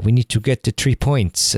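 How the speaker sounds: a light, hammed-up Italian accent on a coach's rallying line; a hint of an Italian football coach; bad Italian accent. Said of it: "so I'm not the best Italian, uh, accent".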